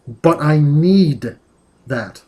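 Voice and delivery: "need" drawn out and stressed; slow insistent "need". Acted. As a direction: lean hard on "need". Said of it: "Need is in italics".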